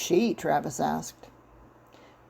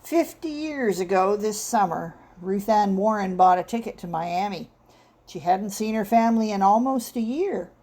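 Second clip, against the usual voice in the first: storyteller cadence. Acted. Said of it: "cadenced rhythm of a practiced storyteller".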